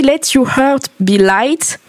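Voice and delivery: English title in a heavy French accent; awkward French-accented English; clumsy English accent. Real, not acted. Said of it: "mon accent magnifique anglais".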